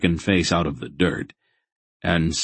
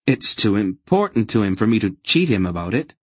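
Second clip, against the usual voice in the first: higher, earnest objection; young Geryon, insistent; 4 semitones higher, 4 dB louder than usual. Acted. Boy refusing to cheat the fanatic, insistent. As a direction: insist on it stubbornly.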